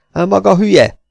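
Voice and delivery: nagyon magasan, hangosan rákiált; felháborodva kiabál rá; kiáltás. A narrator's reading. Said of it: "kiáltotta Szigonyos Pityu". (hangos, magas felháborodott kiáltás)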